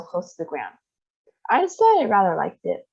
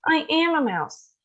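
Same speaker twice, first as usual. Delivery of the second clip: dismayed realisation; 9 semitones higher than usual. Acted. Bruno realising he's a mouse.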